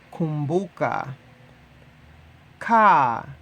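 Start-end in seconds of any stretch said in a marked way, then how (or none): 2.6-3.3 Ka said short and firm, a little louder; clear Swahili model word. Shown as a demonstration. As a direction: model "Ka" crisply for learners. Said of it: "teacher models Swahili word".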